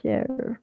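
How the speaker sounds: "Share" softly as one syllable, SHER; quiet English "Share" with silent final e; English pronunciation. Shown as a demonstration. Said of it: "Y se dice share".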